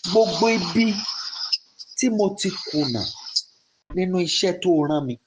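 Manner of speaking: fast, urgent pleading prayer in Yoruba; fervent prayer. Shown as a demonstration. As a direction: rush the words, begging Olúwa for mercy. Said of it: "Go ahead and pray".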